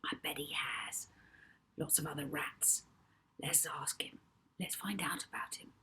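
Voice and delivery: soft unvoiced whisper; hushed reply; Molly whispering back to Rocky. A narrator's reading.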